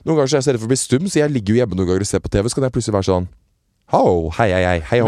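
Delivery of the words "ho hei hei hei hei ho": sound check. Retold or imitated. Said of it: "Jeg har sånne lydprøver".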